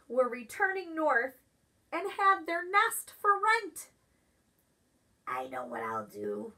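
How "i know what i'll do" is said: low, soft and stuffy; sick groundhog voice. Acted. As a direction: think it aloud, much lower. Groundhog thinks aloud.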